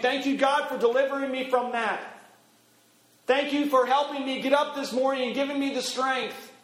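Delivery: praising prayer. Acted. Worshipper thanking God for the morning's strength, praising. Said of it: "we'll be praising God".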